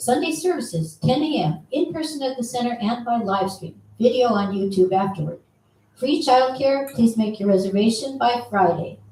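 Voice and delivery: straight, no-nonsense announcement reading. Reading out the center's announcements to save time: talking fast. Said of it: "I'm going to try to talk fast like Tiare does".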